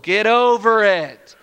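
fed-up, drawn-out dismissal; acted impatient scolding; mock exasperation. Acted fed-up reader scolding Job.

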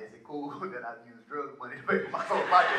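chuckling through the question; laughing question. Retold or imitated. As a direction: ask it half-joking, laughing. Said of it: "I called Stu".

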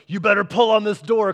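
taunting in a singsong. Retold or imitated. Preacher mocking a teasing God, singsong. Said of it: "It's not like God's like".

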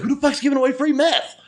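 high-pitched incredulous laugh through the words; laughing disbelief. Retold or imitated. Telling friends about the free meth, laughing in disbelief. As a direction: crack up while asking it.

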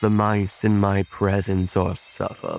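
slow, portentous decree; commanding spellcaster. Acted. Spellcaster ordering cat to spare mice, slow command. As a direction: pronounce it slowly as a solemn threat.

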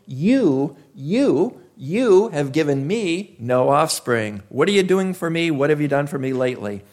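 a touch of accusation, jabbing each "you"; blaming. Retold or imitated. Abram accusing God of leaving him childless, mild blame. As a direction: poke at God with mild reproach. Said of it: "do you hear a little bit of blame in that".

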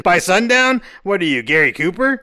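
high, loud incredulous scoff; mocking disbelief. Mocking reply in reenactment.

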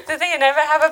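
real laughter breaking through the words; laughing. Real, not acted. Speaker mocks the sticks and stones saying, laughing in disbelief. Joking about the childhood saying.

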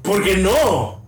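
high, drawn-out challenge; slow, incredulous comeback; insistent challenge. Real, not acted. Throws the protest back at co-host.

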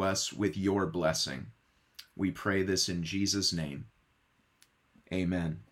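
soft, hushed pastoral prayer voice. Acted. Pastor praying before the sermon, softly and reverently. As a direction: pray quietly and reverently over the congregation.

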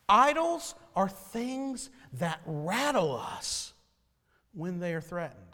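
slow, deliberate reading of the quote. Shown as a demonstration. Preacher reading a quote to the congregation, slow and deliberate. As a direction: lay each word down slowly. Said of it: "This is what she wrote".

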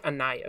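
Anais said "ah-NYE-us"; preferred name pronunciation. Shown as a demonstration. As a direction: say Anais with a stressed "nye" in the middle. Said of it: "going with a few different pronunciations".

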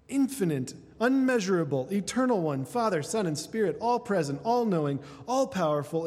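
preacher reciting God's attributes with rising force; swelling litany. Acted. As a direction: proclaim each name as a crescendo.

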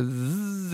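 sustained buzzing z sound; imitated wasp buzz. Narrator voicing the wasp taking off, imitated buzz. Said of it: "takes off with, like, a".

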